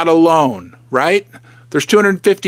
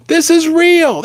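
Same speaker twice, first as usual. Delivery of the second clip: excited; 9 semitones higher, slower than usual. Real, not acted. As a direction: proclaim it proudly. Showing silver in his hand.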